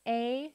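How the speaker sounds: P-A-P-er as p, ay, p, er with pauses; sounded out. Shown as a demonstration. Teacher sounding out paper with the class, P-A-P-er sound by sound. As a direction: give each sound in P-A-P-er alone, not letter names. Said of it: "Let's sound it out together".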